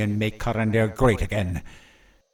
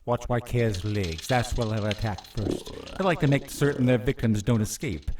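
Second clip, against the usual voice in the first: gloating villain. Acted. Villain gloating over the trap.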